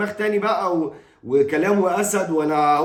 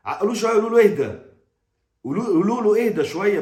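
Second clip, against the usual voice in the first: urgent plea; 4 semitones higher, faster than usual. Real, not acted. Pleading with the star's sons.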